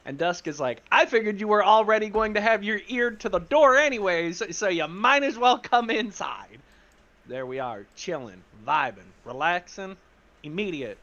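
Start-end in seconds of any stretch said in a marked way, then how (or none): 0.9-6.6 loud, slightly raised callout; calling out eavesdropper. Acted. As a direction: call them in with knowing exasperation. Catching an eavesdropper at the door.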